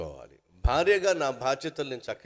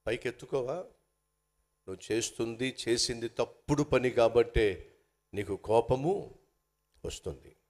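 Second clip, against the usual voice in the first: calm God's voice. Retold or imitated. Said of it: "దేవుడు అంటున్నాడు". (దేవుడు మృదువుగా, నెమ్మదిగా మందలిస్తూ)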